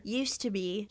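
soft, sad little voice; quiet flat reply. Acted. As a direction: say it softly, withdrawn. Child answers coldly.

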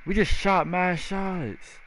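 high, drawn-out, slow marvel; amazed disbelief. Real, not acted. Gamer marvelling after the win, amazed disbelief. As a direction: say it high and stretched, without shouting. Repeats excited reaction to the win.

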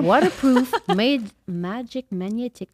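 deliberate English accent sales reading; careful Quebecer's English accent; showy English accent. Shown as a demonstration. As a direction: read the features in your best English accent. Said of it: "vous allez voir mon bel accent anglais".

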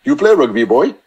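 put-on Welsh accent. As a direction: imitate a big Welsh rugby captain, mildly. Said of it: "with this accent".

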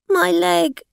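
high, loud wail; crying in pain. A narrator's reading. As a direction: wail as if badly hurt. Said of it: "She began to cry".

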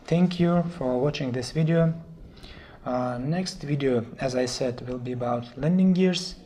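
hoarse, sore-throated voice. Real, not acted. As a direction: speak through a sore throat. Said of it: "I think, a sore throat".

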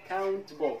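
slow countable with no vowel between t and b; T straight into B. Shown as a demonstration. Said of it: "أنطلق من ال T إلى حرف ال B مباشرة". (نطق countable بانتقال مباشر من T إلى B)

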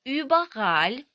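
"Überall" slow and loud, long rounded ü first; German ü demo. Shown as a demonstration. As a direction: model "Überall" for learners, stretched and rising. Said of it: "Потренуємося на словах".

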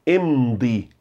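Emdi with a lengthened M; hold the M. Shown as a demonstration. Teacher stressing the M in Emdi. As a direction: stretch the M in Emdi. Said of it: "Agora valorize o M".

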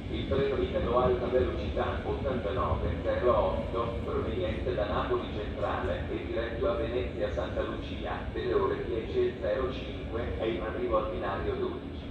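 PA loudspeaker announcement voice; echoing station tannoy; train station announcement. Real, not acted.

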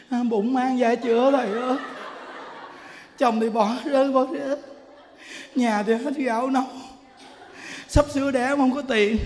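imitated woman listing her woes; mock lament. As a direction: retell her plaintive moaning, lightly hammed-up. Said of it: "Lợ nó than thở".

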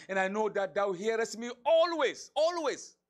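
loud, rising declaration. Acted. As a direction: build to a loud, high always. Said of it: "I'm saying this loudly".

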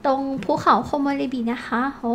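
ordinary delivery

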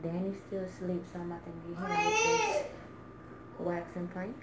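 hushed so as not to wake him; quiet at night. Real, not acted. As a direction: keep it low, someone's asleep. Whispering so Danny stays asleep.

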